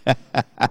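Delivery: soft, quiet chuckle; chuckling. Real, not acted. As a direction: laugh softly at yourself. Laughs at his clumsy tongue. (risadinha baixa)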